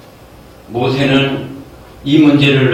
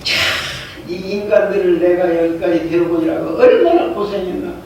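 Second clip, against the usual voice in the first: exasperated Moses; 4 semitones higher than usual. Retold or imitated. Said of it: "모세가 화가 나는 거예요".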